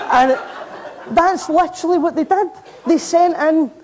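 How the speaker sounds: can't hold back the laughter at the absurdity; real laughter as she tells it; laughing. Real, not acted. Laughing at sword chase story.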